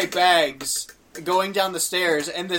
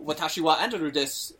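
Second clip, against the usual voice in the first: Japanese self-introduction. Retold or imitated. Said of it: "say it properly".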